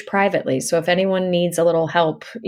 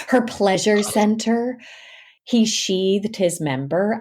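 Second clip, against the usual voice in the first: erotica sample; 2 semitones higher, slower than usual. Shown as a demonstration. Sample lines from erotic audiobooks.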